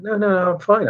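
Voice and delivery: high, quick insistent protest; lightly voiced patient insisting she's fine; eager protest. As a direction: brush off the worry, eager to get up.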